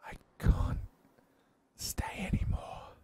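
slow, strained whisper; labored, breathy farewell. A narrator's reading. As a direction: push out a dying whisper. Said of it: "His voice is just a whisper".

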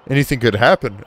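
a hint of an officer's warning; lightly voiced policeman. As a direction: read it as a mildly concerned officer. Reads the policeman's warning aloud.

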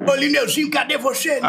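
lightly voiced Mendonça calling out on helium. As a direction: call out high as Mendonça. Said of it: "Eu posso ser o Mendonça?".

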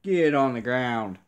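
loud command at the players; yell at the screen. Real, not acted. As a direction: bark it at the TV.

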